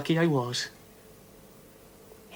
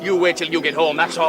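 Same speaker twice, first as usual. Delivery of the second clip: angry threat; 3 semitones higher, 5 dB louder than usual. Acted. Brother threatens his sister.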